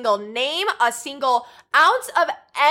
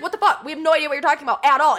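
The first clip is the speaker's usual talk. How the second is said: laughing disbelief; faster than usual. Retold or imitated. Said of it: "everyone's like".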